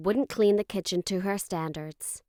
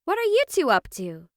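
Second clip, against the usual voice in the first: higher-pitched questioning call; mother calling out; 8 semitones higher, 3 dB louder than usual. A narrator's reading. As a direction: call over to the kids, suspicious. Mother calls to kids in kitchen.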